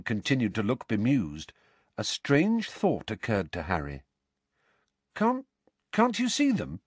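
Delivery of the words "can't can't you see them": incredulous. Acted. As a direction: stammer in dawning disbelief. Dawning strange thought.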